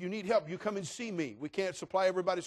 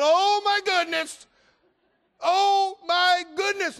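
put-on much higher and much louder, a thrilled toddler's squeal; squealing little girl; 16 dB louder, much slower than usual. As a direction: squeal like a two-year-old who just spotted the presents.

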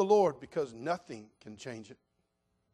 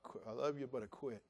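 musing to himself; 4 semitones lower, 14 dB quieter than usual. Retold or imitated. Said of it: "I got to thinking about".

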